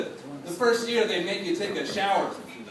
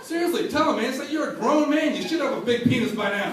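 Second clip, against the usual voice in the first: higher, lightly voiced bravado; inner tough guy; 7 semitones higher, 5 dB louder than usual. Inner tough-guy voice urging him to stand up to Ortez, hammed-up bravado. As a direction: egg yourself on like a cocky inner voice. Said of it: "So the voice was like".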